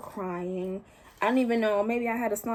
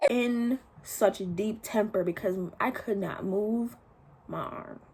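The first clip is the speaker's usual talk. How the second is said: crying; slower than usual. Retold or imitated. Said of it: "So I'm in deep temper crying".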